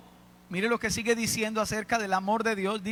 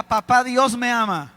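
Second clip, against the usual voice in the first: louder declaration; 6 dB louder than usual. Shown as a demonstration.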